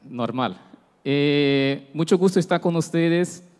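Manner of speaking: Spanish with a Brazilian Portuguese accent; Portuguese-flavoured Spanish, words mixed; portuñol. Real, not acted. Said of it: "ya pido perdón por mi portuñol".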